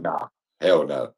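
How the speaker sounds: low, slow flat refusal; a hint of dread as he backs off; mock-scared nope. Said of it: "That you was like".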